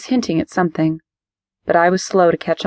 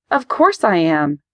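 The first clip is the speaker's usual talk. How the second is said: explosive rage; slower than usual. Acted. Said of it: "I exploded".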